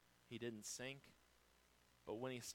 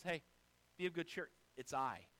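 gentle reassurance; 2 semitones higher than usual. Retold or imitated. Jesus calming his scared disciples, gently. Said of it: "No, he says".

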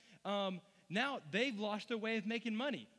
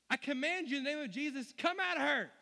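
loud, high, exasperated command; greatly annoyed; 6 semitones higher, 5 dB louder than usual. Acted. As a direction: order the spirit out, fed up. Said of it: "having become greatly annoyed".

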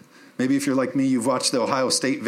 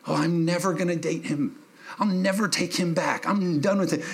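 lightly imitated vow, pitched up; mock resolve; 4 semitones higher than usual. Preacher mimics congregant swearing off an ex, mock resolve. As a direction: mimic someone swearing they're through, higher voice.

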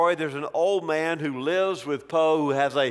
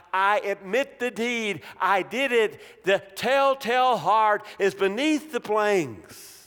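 mock shout; 6 semitones higher than usual. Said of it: "the villain shouts out".

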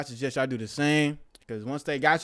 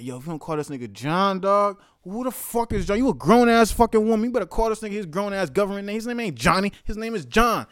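exasperated rant; 4 semitones higher, 5 dB louder than usual. Retold or imitated. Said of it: "I was like".

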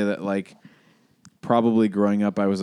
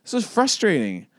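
defiant crying; 9 semitones higher than usual. Retold or imitated. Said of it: "I'm like".

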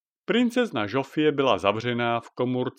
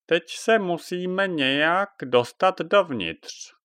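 witch Jaga; 6 semitones higher, slower than usual. Acted. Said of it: "řekla dáma Jaga".

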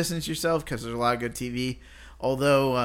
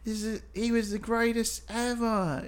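mock regretful guy; 8 semitones higher than usual.

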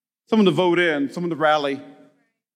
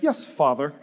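obedient son; 8 semitones lower, 4 dB quieter than usual. Retold or imitated. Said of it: "he'd be like".

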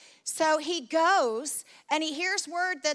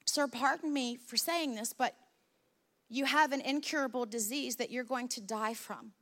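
softer, respectful plea to a master; softer, humble servant; 2 semitones lower, 5 dB quieter than usual. Acted. Servant gently warns Naaman he will die, softer. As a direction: politely soften the bad news.

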